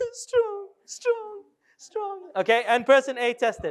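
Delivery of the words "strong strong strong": put-on very high, soft, upset, whiny little-girl voice. Demonstrating a positive-talk exercise, like an upset four-year-old girl. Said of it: "say it like a four year old girl who just dropped her ice cream".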